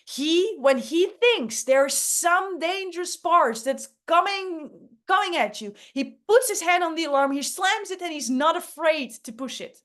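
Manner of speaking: lightly voiced nervous alarm-raiser; Danny Danger voice. Shown as a demonstration. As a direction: play the jumpy danger-spotter, pushing forward. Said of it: "Danny Danger talks a little bit like this".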